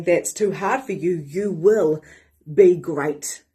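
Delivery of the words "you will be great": ordinary talk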